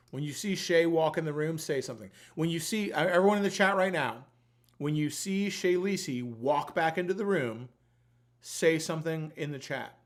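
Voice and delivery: loud, revved-up raffle callout; hyped giveaway announcement. Real, not acted. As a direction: pump up the chat for the draw.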